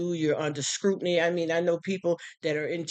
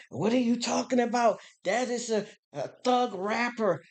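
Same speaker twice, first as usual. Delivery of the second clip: higher-pitched, scandalized mimicry; mock indignant critic; 7 semitones higher than usual. Critic roasting her for quoting a rapper, mock indignant. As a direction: imitate an outraged scold, drawing out the last words.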